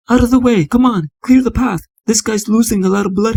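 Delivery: calling out. Acted. Paramedic pushing through the crowd.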